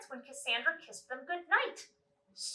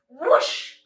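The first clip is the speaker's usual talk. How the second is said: magic whoosh; 3 semitones higher, 12 dB louder than usual. Acted. Magic transformation sound.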